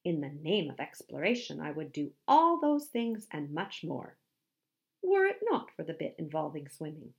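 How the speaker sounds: lofty, emphatic pledge; theatrical gallantry; Handsome the musk ox, grandiose. Acted. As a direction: proclaim it like a self-styled hero.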